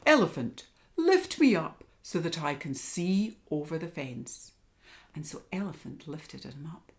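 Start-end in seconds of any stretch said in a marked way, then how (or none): 0.1-4.5 lion voice. Acted. Lion asks elephant.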